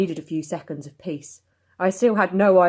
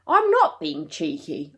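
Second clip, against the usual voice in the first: slow, bitter denial; 3 dB louder, slower than usual. Acted. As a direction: let bitterness leak out. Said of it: "bitterness spilling out in my voice".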